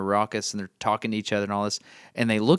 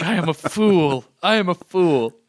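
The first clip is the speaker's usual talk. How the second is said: higher, louder self-mocking; laughing at oneself; 7 semitones higher, 6 dB louder than usual. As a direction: laugh through the confession. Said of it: "I was like".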